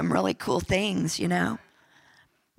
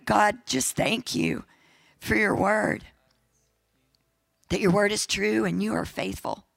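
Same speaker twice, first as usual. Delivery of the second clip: prayer. Acted. Pastor prays aloud.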